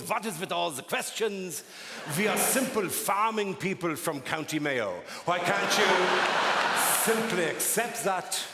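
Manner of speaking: mildly put-on grandmother voice; lightly voiced German grandmother. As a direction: brush off the questions like an evasive granny. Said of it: "she would just look at me and goes".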